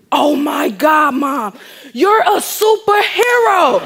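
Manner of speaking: put-on loud, high, drawn-out child's cheer; imitating thrilled daughter. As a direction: mimic an awestruck little girl, slow and shouted. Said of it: "first thing my daughter said".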